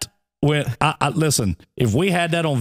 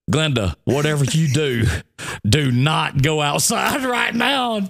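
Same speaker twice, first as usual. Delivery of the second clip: laughing warning; slower than usual. Retold or imitated. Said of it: "I said".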